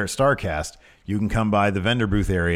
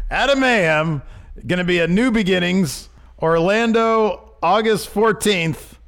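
announcing big news; 6 semitones higher than usual. Real, not acted. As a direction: sell it like a ring announcer. Hyping a wrestler's upcoming matches.

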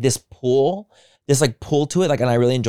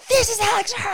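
surprised. Retold or imitated. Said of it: "I was like".

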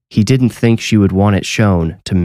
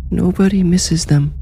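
put-on much higher, eerie little boy; eerie child voice; 12 semitones higher than usual. Spirit speaks through the little boy, much higher eerie child voice. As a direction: say it like a haunted child. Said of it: "the little boy said".

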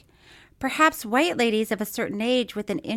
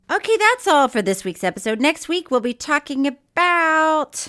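loud hasty sign-off; 5 semitones higher, 5 dB louder than usual. Real, not acted. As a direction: talk over the teasing to close the show. Loudly cuts off teasing with sign-off.

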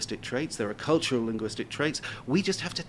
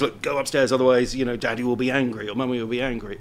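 mildly firm, a touch louder at the start; a hint of a parent laying down a warning; lightly voiced warning parent; 4 dB louder than usual. Parent to the other child at bedtime, mildly warning. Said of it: "use different language".

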